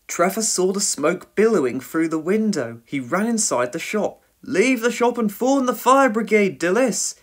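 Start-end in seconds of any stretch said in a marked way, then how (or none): 4.4-7.2 raised, louder warning shout; urgent shout. A narrator's reading. Trevor sees smoke and warns Dilys, urgent shout. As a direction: shout the alarm, high and forceful. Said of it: "he shouted".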